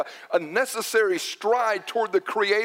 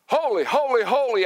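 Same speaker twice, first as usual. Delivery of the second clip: "Holy, holy, holy" repeated with a raised, punched attack on each; emphatic repetition; 3 semitones higher, 3 dB louder than usual. Retold or imitated. Preacher quotes Isaiah repeating a word, emphatic repetition. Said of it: "word will be repeated for emphasis".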